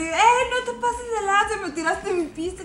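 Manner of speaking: angry. Retold or imitated. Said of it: "le empieza a decir".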